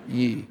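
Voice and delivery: low "Ye" for "you", lips unrounded; Nashville "Ye". Shown as a demonstration. Native correcting the Yankee, "Ye" in Southern pronunciation. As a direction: say "Ye" without pushing the lips out. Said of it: "Don't have to push your lips out".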